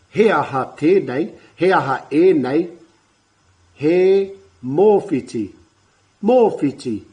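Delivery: put-on lively questioning voice for children; asking young ones. Shown as a demonstration. Teacher asking little ones what this is, lively. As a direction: quiz the kids, bright and engaging. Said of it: "asking the question of the young ones".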